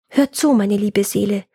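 mildly acted sighing plea, lifting in pitch at the end. Woodcutter pleading with his soul, sighing. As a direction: appeal tenderly to your own soul. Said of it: "seufzte er".

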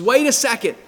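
a sudden voiced "hold on" from mom; mock alarmed mom. Mom stopping her son as he leaves, mock alarmed. Mom calls after boy in story.

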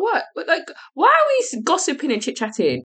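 put-on high, breathless valley-girl rant; exasperated celebrity whine, pitched high; Kim Kardashian voice. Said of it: "I sound like Kim Kardashian on my days".

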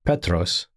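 Petros said PEH-tross, stress on the first syllable; Greek pronunciation. Shown as a demonstration. Teacher naming the Greek word for Peter, careful Petros. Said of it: "The Greek words for Peter".

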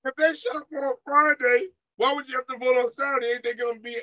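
high put-on voice, laughing by the end; mock a smug politician in a squeaky voice; mocking Republican voice. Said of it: "they said".

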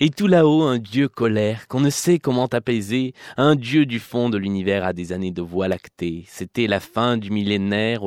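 grand theatrical recitation; hammy stage actor. Pretend. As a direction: declaim it like a ham actor on stage. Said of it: "je vais le déclamer parce que c'est tellement beau".

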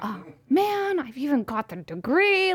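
high-pitched comic self-exasperation; mock dismay. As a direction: play up your own exasperation for laughs. Acting out mock dismay at herself.

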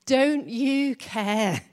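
exasperated plea. Acted. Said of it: "She comes to Jesus and she says".

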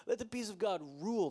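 quick, laughing repeat of let the peace of God rule. Shown as a demonstration. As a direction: toss it off with a chuckle. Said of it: "rereads the verse".

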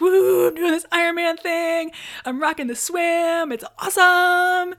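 mock elated whooping. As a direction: whoop it high, riding a wave of self-delight. Acting out elation mid-swim.

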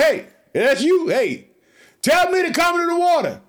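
high, loud eager plea as Peter. Retold or imitated. Preacher voicing Peter calling to Jesus from the boat, high and eager. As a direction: voice Peter begging to walk on water.

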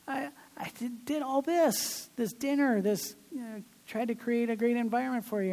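hurt complaint. Retold or imitated. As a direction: voice climbs as he lists what he did.

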